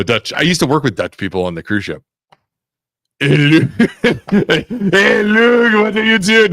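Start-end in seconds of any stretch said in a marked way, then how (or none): 3.2-6.5 put-on high-pitched Belgian accent that slips into French; attempted Belgian accent. Host hunting for a Belgian voice, botched French-sounding accent. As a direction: try a Belgian, land on a hammy French accent. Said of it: "No, that's French".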